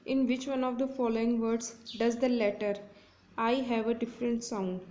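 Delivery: slow, careful reading of an exam question; deliberate classroom read-aloud. Shown as a demonstration. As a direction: read each word clearly for students. Teacher reads exam question aloud.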